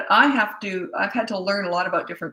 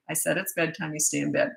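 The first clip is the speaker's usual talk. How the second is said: calm, firm parent; 5 dB quieter than usual. Acted. Parent putting child back in bed, calm and quiet. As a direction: say it calmly, letting the voice settle. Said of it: "you're always calm and slow, and you just say".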